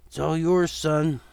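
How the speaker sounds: gently mocking father figure; lightly voiced father. Father teasing his son about his stiff walk, light and amused.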